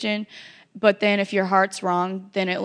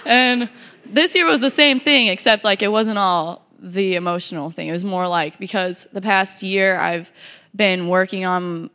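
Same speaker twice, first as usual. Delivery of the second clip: shaky voice. Real, not acted. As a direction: voice shaky with held-back tears. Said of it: "man, shaky".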